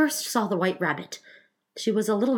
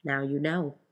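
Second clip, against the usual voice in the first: slow, slightly lowered pronouncement; deep voice; 3 semitones lower, slower than usual. A narrator's reading. Griffin solves it for Alice, mildly deep voice. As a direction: settle a little deeper, unhurried. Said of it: "in a deep voice".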